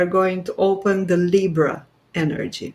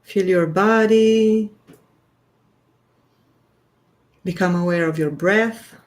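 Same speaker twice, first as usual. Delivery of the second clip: unhurried guiding voice with long pauses; guided grounding meditation. Real, not acted. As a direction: gently lead listeners into their breath, leaving space between phrases. Leads a short grounding meditation.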